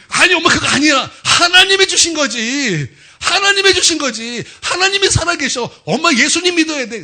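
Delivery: high, loud, insistent shouting, acted out; impassioned pleading. Son tells mother the money came from God, impassioned shout. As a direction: plead at full voice to convince her.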